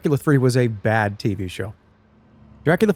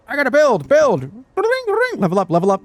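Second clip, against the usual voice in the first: mobile game ad voice; 12 semitones higher, 4 dB louder than usual. Retold or imitated. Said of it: "sounds like the audio from a mobile game ad".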